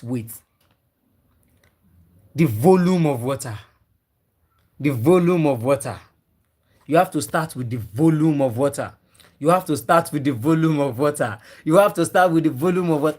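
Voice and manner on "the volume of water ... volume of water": deliberate repeats with "volume" stressed; emphatic repetition. Real, not acted. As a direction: lean on "volume" in each repeat. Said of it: "I know why I am re-emphasizing these things".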